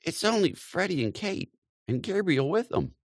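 lightly voiced, simple old aunt; simply. A narrator's reading. Aunt Julia answering her sister simply, high voice. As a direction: answer plainly, a bit surprised.

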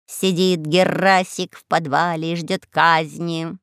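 raspy cawing crow. Acted.

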